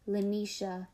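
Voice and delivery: "Lanisha" with a crisp, bright middle syllable; bright second syllable. A narrator's reading. Mother says "Lanisha" at last, bright crisp second syllable. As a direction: say "Lanisha", lightly ringing the NI. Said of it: "The second syllable is bright and crisp".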